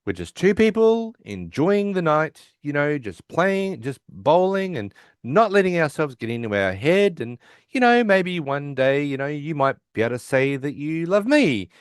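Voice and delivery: mock-casual hinting, stretched out; pointed hinting. Leonard hints to Penny over a drink, pointedly.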